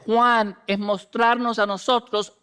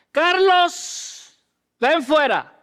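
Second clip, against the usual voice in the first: calling out; 6 semitones higher, much slower than usual. Acted. Preacher voices Jesus calling name.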